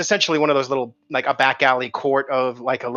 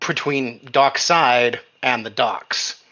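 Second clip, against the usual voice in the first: whispered aside; 2 semitones lower, much slower than usual. Real, not acted.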